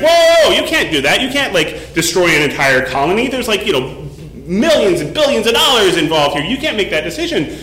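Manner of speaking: mock panic over the money; alarmed executive. Executive protests the nuke plan.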